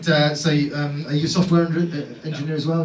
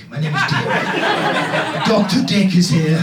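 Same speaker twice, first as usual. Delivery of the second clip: telenovela hero. Pretend. Comedian casting the dad as a soap hero, hammed-up. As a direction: lightly play a smooth telenovela doctor. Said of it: "well, in telenovela".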